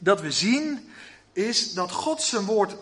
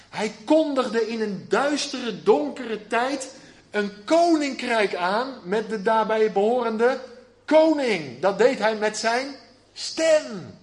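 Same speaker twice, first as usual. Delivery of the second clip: trager en steeds luider; opbouwende prediking; 3 semitones higher, 4 dB louder, slower than usual. Acted. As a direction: bouw op naar het woord stem. Prediker bouwt op naar climax. (traag en aanzwellend)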